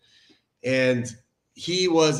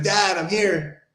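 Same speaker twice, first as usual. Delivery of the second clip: higher, drawn-out happy greeting; excited kid; 7 semitones higher, slower than usual. Retold or imitated. Son running in to greet his dad for the road trip, excited. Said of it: "he's so excited".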